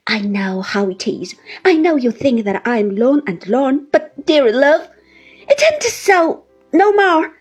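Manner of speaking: put-on high, loud, crying old widow's plea; tearful pleading. A narrator's reading. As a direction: beg to be taken along, sobbing into it. Mrs Gummidge's long tearful plea.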